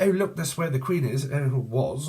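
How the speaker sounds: lightly voiced London sightseer; London accent. Someone near London spotting the Queen's place, mock London voice. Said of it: "this person could live near London".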